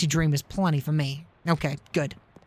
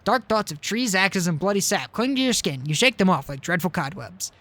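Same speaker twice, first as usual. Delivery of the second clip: story narration. A narrator's reading. Gamer reading narration to viewers, storyteller voice. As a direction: narrate it as if reading a tale aloud. Player reads game narration aloud.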